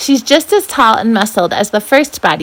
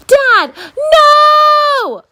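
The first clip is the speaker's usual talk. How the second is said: high desperate scream; both kids screaming no; 5 dB louder than usual. Acted. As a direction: scream to stop him. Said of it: "we both scream".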